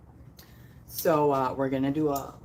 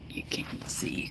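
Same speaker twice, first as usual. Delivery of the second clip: whispering; 6 dB quieter than usual. Real, not acted. Talking into the tank.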